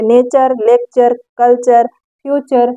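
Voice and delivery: each of "नेचर, लेक्चर, कल्चर, फ्यूचर" set out as a model; teacher's word list "नेचर, लेक्चर, कल्चर, फ्यूचर" with short "ar" endings; "ture" read as "char". Shown as a demonstration. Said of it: "अर करके पढ़ेंगे".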